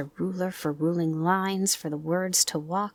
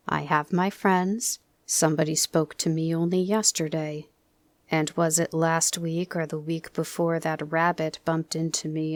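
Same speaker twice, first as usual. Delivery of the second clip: Eeyore's gloomy voice. Acted. Eeyore complains.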